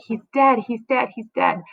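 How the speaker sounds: a high cry that fades to plain; screaming out. Shown as a demonstration. Teacher shows how the nurse calls out, fading cry. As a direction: cry it out, then let it sink. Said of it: "She's, she's screaming out".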